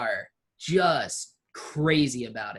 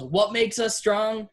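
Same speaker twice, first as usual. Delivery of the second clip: commander's yell; 5 semitones higher than usual. Acted. General rallies his troops before the crowd, in a mild yell. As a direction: call out to the troops like a drill leader. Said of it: "he turns to his troops and he yells".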